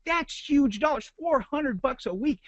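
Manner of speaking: high, slow disbelief; incredulous. Real, not acted. Outraged at the ad budget.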